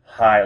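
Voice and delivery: "hi" held level in pitch; flat tone. Shown as a demonstration. Teacher showing Vietnamese two, "hi" on a flat tone. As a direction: say "hi" evenly, no rise or fall. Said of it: "it's a flat tone".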